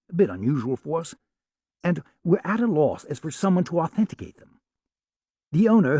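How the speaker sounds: polite, lightly put-on posh English caller; an Englishman from Sotheby's, courteous and apologetic; English accent. Sam posing as a Sotheby's man, light English accent. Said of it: "spoke with an English accent".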